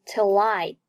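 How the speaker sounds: "till I" said like "ti-lai"; linked pronunciation. Shown as a demonstration. Teacher demonstrates 连读, "till I" linked. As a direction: carry the l of "till" into "I". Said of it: "till和I连读".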